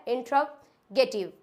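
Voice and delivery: इंट्रोगेटिव slowly, as in-trov, ge-tiv; correct pronunciation. Shown as a demonstration. Teacher repeating the corrected form, slow इंट्रोगेटिव split after "in-trov". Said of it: "ये होता है इंट्रोगेटिव".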